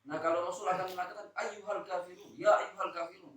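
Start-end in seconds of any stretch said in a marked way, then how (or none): 1.3-3.3 a hard, resolute call to the unbelievers; firm, stern address. Shown as a demonstration. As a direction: address them sternly but not rudely. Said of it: "keras, bukan kasar ya, keras, tegas".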